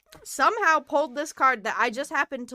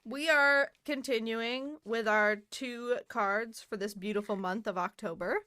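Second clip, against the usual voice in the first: whispering; 4 dB quieter than usual. Acted. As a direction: breathe it like a spooky secret. Opening the tarot segment.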